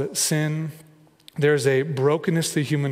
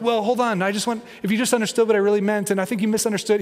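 higher-pitched anxious self-justifying, played up; fretful, higher mock backpedaling; mock anxious pleading; 5 semitones higher, faster than usual. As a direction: act out someone nervously explaining themselves. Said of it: "not anxiously trying to".

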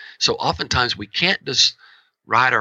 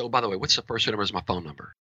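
abrupt drop to a soft, fast, casual question; suddenly quiet; 6 dB quieter, much faster than usual. Shown as a demonstration. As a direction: switch off the anger and ask it offhand, softer. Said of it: "suddenly shut down and say".

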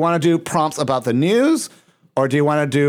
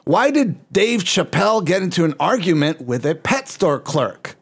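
a light mock Mexican accent, reading the joke aloud; lightly put-on Mexican accent, read playfully; 4 semitones higher than usual. Reading a ChatGPT joke to the hosts in a light mock Mexican accent. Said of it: "I'm doing this in a Mexican accent".

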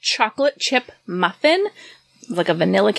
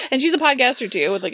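ordinary talk, nothing marked

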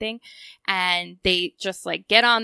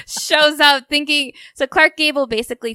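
laughing while talking; 7 semitones higher, 8 dB louder than usual. Real, not acted.

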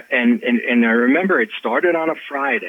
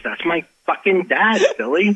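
retold astonishment; 8 semitones higher than usual. Retold shock at recognising the photo.

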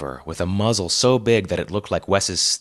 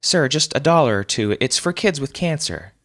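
pleading collector; 7 semitones higher than usual. A narrator's reading. Charity woman presses again.

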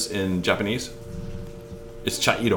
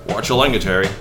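put-on light Scottish-accented scolding; a loose Scottish movie-star voice; mild Scottish reprimand; Sean Connery. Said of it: "I used the Sean Connery voice in the middle there".

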